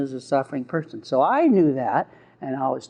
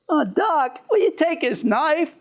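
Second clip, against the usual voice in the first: pleading inmate; 10 semitones higher than usual. Retold or imitated. Inmate pleading once anger is out.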